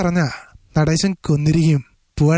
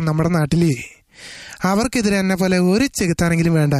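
lightly voiced film villain, measured and menacing; impression of a threatening gangster, long pauses between phrases; Natesan. Shown as a demonstration. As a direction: deliver the threat in measured pieces. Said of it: "Natesan എന്ന് പറയുന്നൊരു ക്യാരക്ടറിൻ്റെ വോയിസാണ്".

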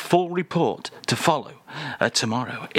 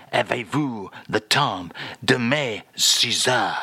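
French phrase; 3 semitones lower, slower than usual. Acted. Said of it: "I'll do that again".

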